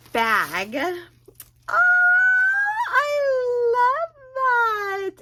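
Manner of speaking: high, tearful gushing; high, teary delight; happy tears. Real, not acted. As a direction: gush through happy tears. Crying over cute gift.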